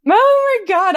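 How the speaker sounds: loud, high-pitched gush; high, emphatic amused outburst. Real, not acted. Gushing over James's funniest moments.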